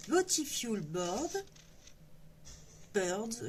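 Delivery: unsure, slow English with a French accent. Real, not acted. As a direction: stumble over the English title with French sounds. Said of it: "l'accent anglais, mon Dieu".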